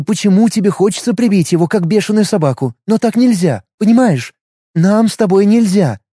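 urgent woman. Acted. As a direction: plead urgently with a partner. Taisa persuading Matvey.

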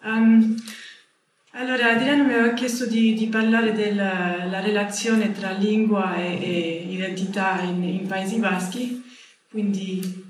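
non-native speaker with a foreign accent in Italian; Italian spoken with a light foreign accent; english accent in italian. Real, not acted. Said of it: "mi scusate il mio italiano".

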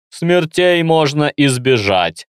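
slow, muffled voice behind a mask; through a gas mask. Acted. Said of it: "продолжил глухой голос".

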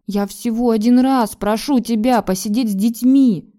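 a wife stinging from the refusal, pressing hard on детьми; hurt plea. A narrator's reading. To her husband who refuses to help, a loud hurt plea. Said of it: "с обидой проговорила я".

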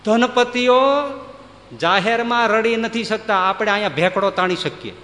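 loud, high declaiming to the crowd. Real, not acted. Speaker to audience, a loud high declaiming voice. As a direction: project it to the back row.

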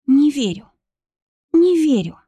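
high, stricken repetition; anguished disbelief. A narrator's reading. Kristina cannot believe Christian is dead, stricken. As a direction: repeat it in shock. Denial after his death.

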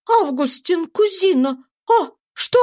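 a mother bursting in, voice climbing in alarm; frightened cry. A narrator's reading. Marie runs in calling Augustine, crying out in fear. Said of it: "вбежала в комнату с криком".

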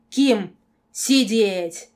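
very loud, drawn-out command; window-rattling yell. A narrator's reading. Girl ordering the werewolf down, yelling. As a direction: bellow it, stretching each word. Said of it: "От моего вопля задрожали окна".

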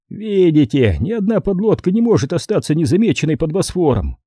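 triumphant. A narrator's reading. Consul interrupting about the watched strait, mildly triumphant. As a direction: cut in with a touch of triumph. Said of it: "торжествующе перебил консул".

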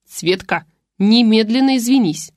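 loud sharp order to apologise; exclaiming. Acted. Father loudly ordering his daughter to apologise. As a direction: bark it out to the rude daughter. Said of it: "воскликнув".

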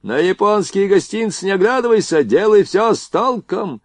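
steady the crew from a distance; ordering. A narrator's reading. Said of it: "приказывал он".

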